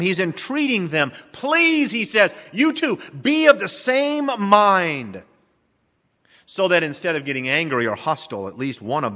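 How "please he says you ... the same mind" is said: slow pleading Paul voice, please pitched much higher; a lightly voiced apostle begging two quarrelling women. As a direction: plead with them gently and slowly. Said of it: "he's begging them".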